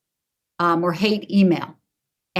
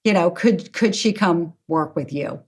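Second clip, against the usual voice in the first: pleading father; 4 semitones higher than usual. Retold or imitated. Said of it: "they write to me and say".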